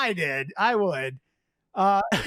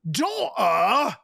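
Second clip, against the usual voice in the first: mock shocked question; 2 semitones higher than usual. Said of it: "as if shocked".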